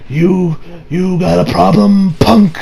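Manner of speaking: slow, menacing tough-guy challenge; tough director. Retold or imitated. Real director to Barry, slow menacing challenge.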